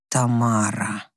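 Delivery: low, slow, weary sigh of her name. A narrator's reading. Husband sighs his wife's name, worn out and slow. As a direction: breathe the name out in exhaustion. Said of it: "вздохнул он".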